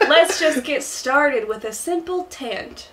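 slow Southern salesman coaxing; Tom Nook. Acted. Steering islanders to a tent, slow Southern accent. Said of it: "The Southern accent is supposed".

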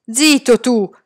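firm, curt command. Acted. Salman silencing the frightened Karim, firm. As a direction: shut him up with authority. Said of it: "disse Salman con aria decisa".

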